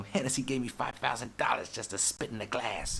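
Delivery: mock rapper flaunting a deal; bragging rapper. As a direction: boast about the sponsor deal. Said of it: "You know".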